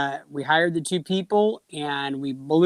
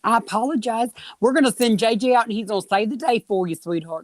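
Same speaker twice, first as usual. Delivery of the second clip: Southern belle impression; 3 semitones higher than usual. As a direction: play a sympathetic Southern belle soothing a customer. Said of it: "He becomes like a Southern belle woman".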